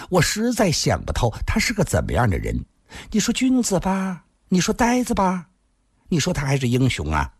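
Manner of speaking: lightly voiced woman, puzzling aloud; coquettish woman musing. Woman wonders what kind of man he is, coquettishly puzzled. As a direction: muse with lilting particles, pitch lifting on the guesses.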